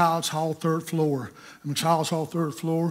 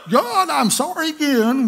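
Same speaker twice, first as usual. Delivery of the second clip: higher, louder apology; mock sheepish apology; 11 semitones higher, 8 dB louder than usual. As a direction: blurt out the apology once more. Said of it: "Thirty minutes later".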